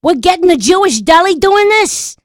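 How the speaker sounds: can't believe who is catering; surprised disbelief. Acted. Shocked at Jewish caterer.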